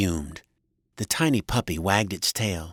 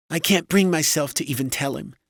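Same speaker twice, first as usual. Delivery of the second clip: high-pitched, despairing wife; high wife voice, at a loss; distressed wife; 9 semitones higher, 3 dB louder than usual. A narrator's reading. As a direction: confess it in a high, upset voice. Wife despairs over telling son.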